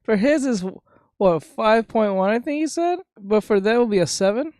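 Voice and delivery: high, loud laughing through words; cracking up mid-sentence. Real, not acted. Laughing at the grandma joke.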